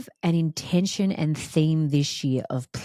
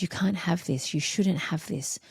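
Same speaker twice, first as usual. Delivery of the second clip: higher, rushed, wheedling little-voice; imitating her limiting ego; 5 semitones higher, much faster than usual. Her old limiting ways talking her out of joy. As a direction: play the small scared ego bargaining down. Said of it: "contracted ways that said".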